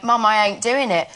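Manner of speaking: lightly put-on EastEnders Cockney; Essex-Cockney twang, retold; EastEnders accent. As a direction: imitate coming home talking EastEnders Cockney. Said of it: "speaking in that way".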